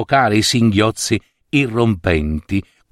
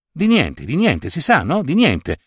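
pressing insistently; 5 semitones higher than usual. Acted. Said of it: "incalzò la madre".

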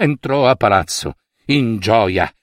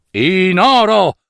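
triumphant shout; 4 semitones higher, slower than usual. Acted. Mida shows his gold trick.

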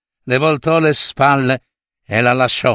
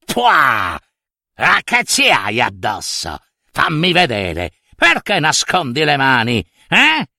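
nasty witch. Acted. Strega sputa e interroga.

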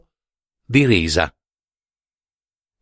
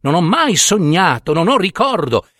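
insistent, rising irritation; peevish protest; 3 semitones higher than usual. Acted. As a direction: protest it, getting higher and more worked up. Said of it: "esclamò stizzito".

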